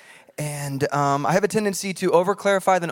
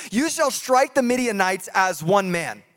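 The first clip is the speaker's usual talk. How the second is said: slow, proclaiming voice of God; booming God; 2 semitones higher than usual. Acted. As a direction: declare it like thunder from heaven. God's promise proclaimed.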